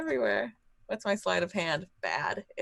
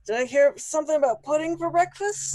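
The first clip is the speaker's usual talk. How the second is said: louder, pitch climbing to a high question; playful mock wonder; 8 semitones higher, 6 dB louder than usual. Dad teasing his family in the kitchen, playfully excited. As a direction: build up eagerly to the last word.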